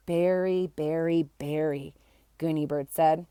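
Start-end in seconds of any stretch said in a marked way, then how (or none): 0.1-1.9 sighing. Acted. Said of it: "with a sigh".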